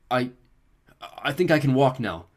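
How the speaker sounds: weakened Beckendorf. A narrator's reading. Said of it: "Beckendorf said".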